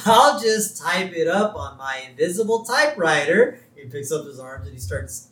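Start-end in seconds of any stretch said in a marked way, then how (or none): 0.1-3.6 lightly acted character, a bit higher; Wickham. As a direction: play the character with a mildly raised pitch. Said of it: "Wickham tells him".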